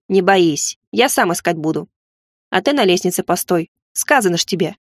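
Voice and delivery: ниже, по-мальчишески уверенно; бросить небрежно, по-хозяйски; уверенный мальчишка. Acted. Кони успокаивает и командует. (уверенный мальчишеский голос)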